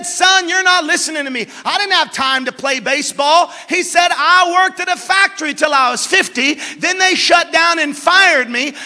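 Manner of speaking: put-on upset old man. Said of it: "The man got upset".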